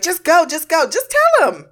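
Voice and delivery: a hammed-up jittery impression; mock cracked-out rambling. Vlogger imitating a woman acting like she's on crack, mock frantic. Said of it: "acting like she's on crack".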